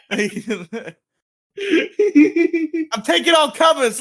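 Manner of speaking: hammed-up brawler calling everyone out; mock fighting taunt. Taunting imaginary old folks to fight, hammed-up shout.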